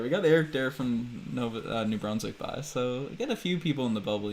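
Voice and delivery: light Newfoundland-style East Coast lilt; East Coast accent. Shown as a demonstration. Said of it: "throw in that accent there".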